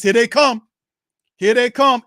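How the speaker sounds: fed up, shout it as the flags keep coming; outraged. Real, not acted. Fan ranting at referees during live game, angry loud outburst.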